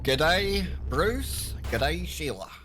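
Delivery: a light Aussie "G'day" greeting; mock Australian, half-hearted; lightly put-on Australian accent. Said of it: "one of the few accents I can do is Australian".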